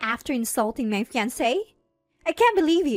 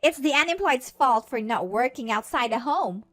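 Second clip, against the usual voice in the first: higher-pitched, accusing complaint; scornful blaming; 7 semitones higher than usual. A narrator's reading. Harassers brush off the parents' warning, scornful. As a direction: lay the blame with scorn. Harassers blame unemployed sister.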